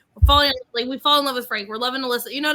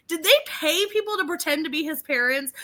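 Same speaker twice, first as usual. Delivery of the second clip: laughing incredulous; 3 semitones higher than usual. Retold or imitated. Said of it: "I'm like".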